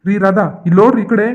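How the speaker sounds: loud, commanding fake boss call; boss voice impression. Coworker pranks Radha by faking the boss's voice, loud and bossy. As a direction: bellow her name like the strict boss would. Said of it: "boss ತರ voice change ಮಾಡಿ".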